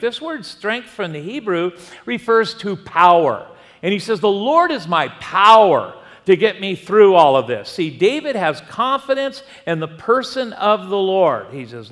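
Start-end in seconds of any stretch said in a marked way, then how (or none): 4.2-7.7 loud and fervent, ringing out; proclaiming loudly. Acted. Pastor proclaiming David's words to the congregation, loud and fervent. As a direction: declare it like a preacher at full force. Quoting David's declaration with force.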